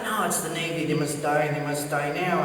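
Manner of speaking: low, grim mock vow; mock menace. Pilot thinking of the rival Navy, mock menacing. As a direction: vow revenge with pretend deadliness.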